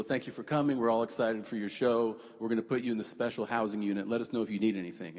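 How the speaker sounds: brisk, low-key formal welcome; businesslike official greeting; formal officers. Retold or imitated. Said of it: "they're pretty formal".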